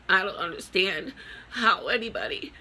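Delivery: high, tearful voice breaking through sobs; real grief pouring out, voice cracking upward; crying. Real, not acted. Grieving mother breaks down crying.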